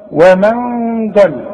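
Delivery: ومن ضل slowly with ن hidden; slow demo. Shown as a demonstration. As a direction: draw out ومن ضل humming the ن. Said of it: "من كلمتين اهي".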